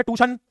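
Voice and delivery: ट्यूशन said "too-shun", no y sound; common misspelling voiced. Shown as a demonstration. Teacher reading a child's misspelling, ट्यूशन mispronounced "tooshun". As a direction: drop the y in ट्यूशन, making it "tooshun". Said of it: "जो normal गलती होती है".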